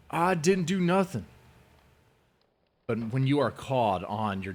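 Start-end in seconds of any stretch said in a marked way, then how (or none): 0.1-1.3 childish raised whine, mocking him; mock whiny denial. Mocking the man as a sulking child, raised whine. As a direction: imitate a giant child shouting back.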